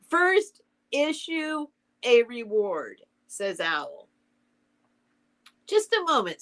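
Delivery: animated storybook dialogue, lifted pitch; story read-aloud. A narrator's reading. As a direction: read the characters with lively rises and falls.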